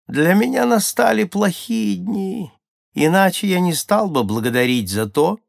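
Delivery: high, loud little shaman's complaint; impatient. A narrator's reading. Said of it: "нетерпеливо ответил маленький шаман". (нетерпеливо, высоким голосом)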